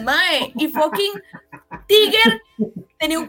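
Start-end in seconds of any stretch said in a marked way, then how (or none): 0.6-2.4 laughing outburst. Real, not acted. Laughing outburst about a film.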